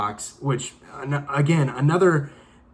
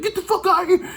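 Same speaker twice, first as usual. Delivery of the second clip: much higher with a laugh, imitated command; mock shout; 12 semitones higher than usual. Cop clearing the hostages, retold as a high, laughing shout. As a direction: bark the order while laughing at it.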